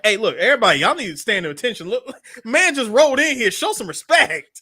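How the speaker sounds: calling the room to order, hammed-up; lightly acted commanding shout; mock call to attention. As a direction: bark a playful order to everyone.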